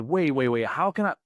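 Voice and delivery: reenacting astonishment, pitch jumping up; blown away. Man asking her what just happened, blown away. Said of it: "I was so blown away".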